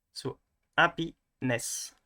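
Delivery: "happiness" slowly, with the stress on the last syllable, happi-NESS; slow stress demo. Shown as a demonstration. Teacher demos French stress on "happiness". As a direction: spell out the end stress of "happiness". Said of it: "we are going to stress on the end".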